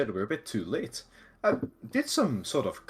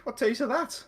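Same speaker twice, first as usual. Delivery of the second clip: indignant; 6 semitones higher, 4 dB louder than usual. Acted. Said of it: "angrily puts his hands on his hips".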